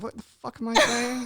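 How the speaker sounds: very high, incredulous inner voice; baffled at himself. Retold or imitated. Host mocking his own odd howdy, very high baffled voice. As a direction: squeak out your disbelief at your own words. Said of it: "I'm like".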